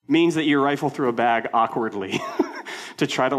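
laughing. Real, not acted. Laughing at the memory.

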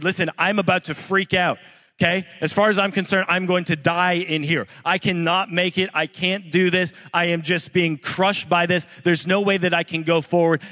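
the trapped caver, sure he will die, begs the guide ahead in mounting panic; panicked plea. Retold or imitated.

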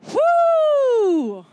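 high, loud whoop; excited whoop. Real, not acted. Preacher whoops at the congregation. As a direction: let out a big cheer.

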